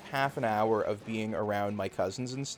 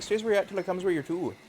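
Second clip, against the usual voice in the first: put-on Newfoundland accent; 5 semitones higher, faster than usual. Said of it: "they say weird stuff like".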